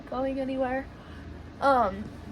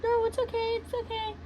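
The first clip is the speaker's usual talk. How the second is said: imitated Hispanic woman; 10 semitones higher than usual. Woman calming panicked friend, high imitated voice. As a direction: soothe in a high put-on voice. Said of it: "they're Hispanic".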